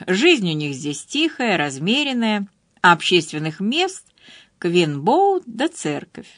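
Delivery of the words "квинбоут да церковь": ordinary delivery, nothing marked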